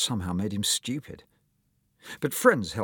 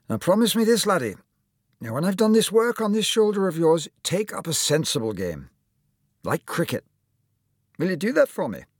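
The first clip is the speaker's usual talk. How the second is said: high, emphatic Scottish surgeon; Scottish accent; 10 semitones higher, 4 dB louder than usual. Acted. Surgeon advising his young patient, Scottish accent. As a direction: press the lad for a promise in Scottish tones. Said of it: "with just a hint of a Scottish accent".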